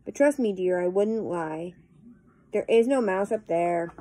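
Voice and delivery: lilting, rhythmic verse recitation; poem reading. Acted. Vlogger reading a humorous poem to viewers, lilting recitation. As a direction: read the rhyme out with a bouncing beat. Reads poems aloud to viewers.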